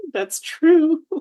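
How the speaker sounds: high-pitched, loud laughing agreement. Real, not acted. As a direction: agree through a burst of laughter. Laughs at friend's banter remark.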